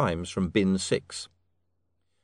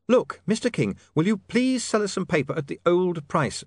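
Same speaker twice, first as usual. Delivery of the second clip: much higher, earnest appeal; pleading young man; 9 semitones higher, 4 dB louder than usual. Acted. William asks the king to sell paper, pleading. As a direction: plead in a raised, urgent pitch.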